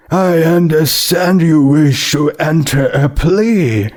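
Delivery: a judge addressing the accused from the bench; stern judge. Acted.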